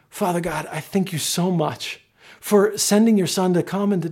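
earnest, measured public prayer. Real, not acted. Pastor thanking Father God for transformation, earnest prayer. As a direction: pray it sincerely for the whole room. Let's pray.

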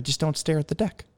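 gentle, casual debriefer. Retold or imitated. Instructor corrects pilot's landing, gentle and casual. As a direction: imitate an easygoing instructor's mild correction. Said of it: "real gentle, real casual".

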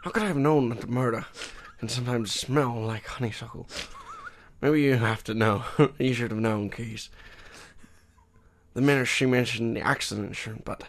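lightly voiced hard-boiled narrator reading a monologue; a touch of Sean Connery in a noir read; noir detective voice. Co-host reads a noir monologue, a hint of detective growl. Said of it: "the silly Sean Connery-esque".

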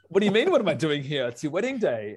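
acted-out bewildered protest; incredulous retort. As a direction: fire it back in retold disbelief. Acts out his baffled reply.

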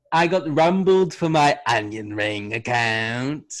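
put-on slow New Zealand accent; hammed-up New Zealand drawl, stretched vowels. Pop star exposed for onion ring account, New Zealand accent. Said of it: "So that's my New Zealand".

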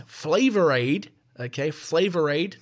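Flavor Aid said slowly and deliberately; stress on Flavor Aid. Real, not acted. Host corrects the Kool-Aid belief, slow emphasis on "Flavor Aid".

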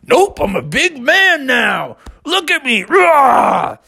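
slow, puffed-up little bear boast; proud little cub. A narrator's reading. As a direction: play a cub pretending to be big. Bubby boasts as big man.

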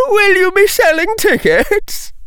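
very high, loud mocking squeal; sneering taunt. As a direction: laugh at him with words. Second jeer.

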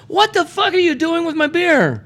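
high, shrill outraged rant; angry brewer voice. Retold or imitated. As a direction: squeal it like an outraged owner. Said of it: "Cryostash company is going".

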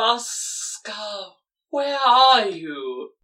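calling loudly, drawn out. Acted. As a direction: call out into the room, slow. Snake calling out from bed.

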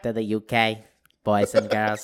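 put-on lightly affected English accent; a playful English accent. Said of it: "English accent".

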